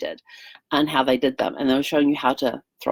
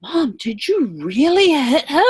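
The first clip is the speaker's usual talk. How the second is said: put-on higher, slow, anxious child's voice; worried little boy; 9 semitones higher, 4 dB louder, slower than usual. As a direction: ask it like a scared kid checking on mom. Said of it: "her son turns to her and goes".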